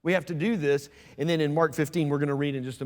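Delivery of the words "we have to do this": softly acted plea, pitch lifting on 'sure'; Jesus pleading in the garden. Preacher voices Jesus praying in the garden, softly pleading. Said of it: "you have him in the garden going".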